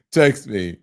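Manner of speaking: laughing through Text me; amused, laughing delivery. Shown as a demonstration. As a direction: chuckle as you say Text me. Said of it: "repeated after plain take".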